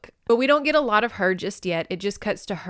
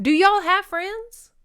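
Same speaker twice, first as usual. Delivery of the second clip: high, loud, drawn-out disbelief; incredulous; 12 semitones higher, 6 dB louder, slower than usual. Real, not acted. Reader challenging writers of fake dialogue, incredulous. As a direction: ask it slowly, pitch soaring in mock disbelief.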